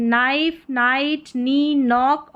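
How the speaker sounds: नाइफ, नाइट, नी, नॉक starting on n, no k; silent K. Shown as a demonstration. Teacher reading KN words aloud, silent-k demonstration. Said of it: "के यहाँ पर silent है".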